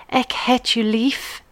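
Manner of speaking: ek het u lief said slowly and carefully; Afrikaans words. Shown as a demonstration. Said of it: "you would say".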